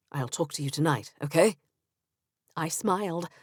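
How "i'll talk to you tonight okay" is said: put-on Benjamin, English accent. Narrator voicing Benjamin on phone.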